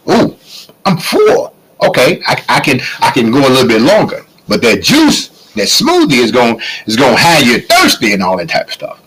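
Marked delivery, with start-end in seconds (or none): 0.1-4.3 satisfied eater. Retold or imitated. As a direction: act out feeling full and content.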